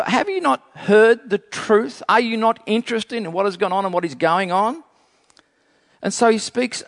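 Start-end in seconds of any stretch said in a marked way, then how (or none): 0.0-4.8 higher-pitched questions with mild frustration; frustrated questioning. Acted. Preacher voicing Isaiah's frustration at those not hearing, frustrated. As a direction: challenge them, a little exasperated. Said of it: "it's like his frustration".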